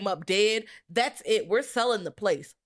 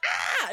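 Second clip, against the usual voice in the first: mock yell. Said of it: "and you're like".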